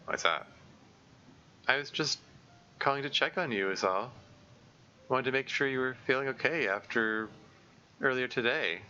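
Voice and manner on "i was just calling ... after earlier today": higher, friendly phone greeting; light and bright hello; Monika's voice. Acted. Monika calls to check on Natsuki.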